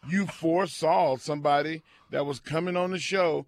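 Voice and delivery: hammed-up angry rant; mock rant. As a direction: rant at callers like a grumpy host. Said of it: "I'm mad".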